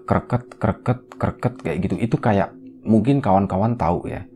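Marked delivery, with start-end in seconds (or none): 0.1-1.5 clipped creak syllables in a steady rhythm; imitated creaking noise. Dela hears a noise while dozing off, imitated creaking. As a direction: mimic a repeated grinding creak. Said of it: "ngedenger ada suara".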